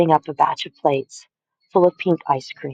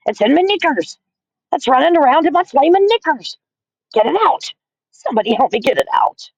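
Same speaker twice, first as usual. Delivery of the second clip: screaming; 11 semitones higher than usual. A narrator's reading. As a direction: beg them to get it out in panic. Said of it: "the man was screaming".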